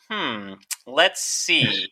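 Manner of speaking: slow, musing hmm; drawn-out mock pondering; thinking hmm. Reading the additive list.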